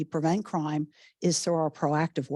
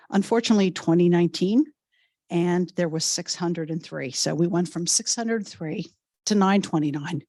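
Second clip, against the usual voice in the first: slightly hoarse from a cold coming on. Real, not acted. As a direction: voice going hoarse, losing it. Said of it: "I'm losing my voice".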